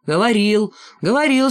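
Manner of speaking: grandfather shouting he said so. Acted. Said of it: "снова закричал".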